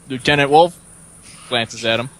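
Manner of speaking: ordinary talk, nothing marked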